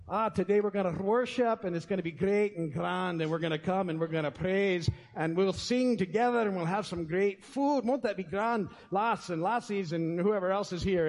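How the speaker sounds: a lightly put-on Scottish accent, the pastor hamming it up; mock Scottish accent. Pastor jokes he'd fill the church with a Scottish accent. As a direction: try a Scottish brogue on a church welcome, only half pulling it off. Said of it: "if I could actually speak in a Scottish accent".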